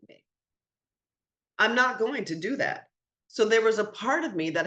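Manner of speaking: pushing back hard on the lies; getting upset. Real, not acted. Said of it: "Now I'm getting upset again".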